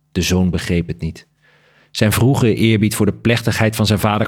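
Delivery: measured literary read-aloud with lightly voiced dialogue; story narration. A narrator's reading. Author reading a bat story fragment to the interviewer, story narration. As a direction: read the tale aloud with deliberate phrasing.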